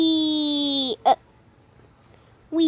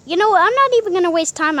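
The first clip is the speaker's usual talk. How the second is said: eager excitement; 5 semitones higher, 4 dB louder, much faster than usual. Acted. Eager to fly off.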